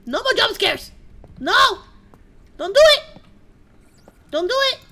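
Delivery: high, loud begging; frightened shouted plea; panicked pleading. Real, not acted. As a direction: beg grandma not to scare you. Pleading before a scare.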